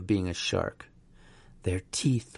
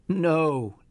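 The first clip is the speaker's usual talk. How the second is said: growl; 6 semitones higher than usual. A narrator's reading. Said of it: "Dave tried to growl".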